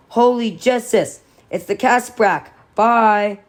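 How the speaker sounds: high, loud Irish cop exclamation; thick Irish accent. A narrator's reading. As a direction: exclaim it in an over-the-top Irish brogue. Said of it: "thickly Irish, impossibly Irish".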